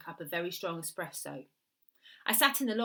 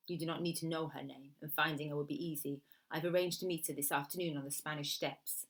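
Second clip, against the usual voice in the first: put-on quieter, lightly accented Italian woman; Italian woman client; 2 semitones lower, 4 dB quieter than usual. Woman arranging the killing of her sister, quiet Italian client. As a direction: answer softly as the Italian client.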